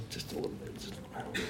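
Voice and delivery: very soft, near-whispered aside; hushed aside. Real, not acted. Preacher about to meddle with congregation, whispered aside.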